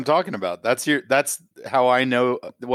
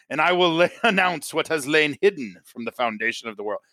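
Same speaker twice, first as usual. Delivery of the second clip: Jesus voice; 4 semitones higher than usual. Retold or imitated. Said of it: "what I heard in my head was Jesus saying".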